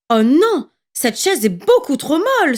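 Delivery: a girl's let-down sigh, lightly played; a touch of a weary sigh. A narrator's reading. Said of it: "soupira Boucle d'Or".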